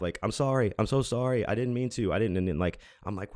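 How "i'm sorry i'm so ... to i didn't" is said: higher-pitched mock pleading; imitated frantic apology. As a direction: imitate someone apologizing with hands up. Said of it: "He's, like, arms up".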